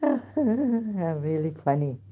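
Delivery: slow, self-mocking laugh; amused self-mockery through laughter. Real, not acted. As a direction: chuckle it out slowly. Laughing at herself.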